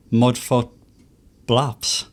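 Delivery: hesitant go at a tricky name, gap before BLAPS; halting attempt. Real, not acted. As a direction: pause between MUDFOOT and BLAPS. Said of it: "them words so hard to say".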